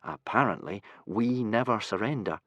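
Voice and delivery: put-on glum, flat-toned boy; gloomy. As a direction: sigh out the motto gloomily. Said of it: "said Hiccup gloomily".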